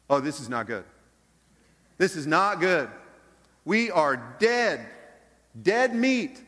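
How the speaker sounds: panicked servant. Retold or imitated. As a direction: servant freaking out as the army surrounds the city. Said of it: "He's freaking out".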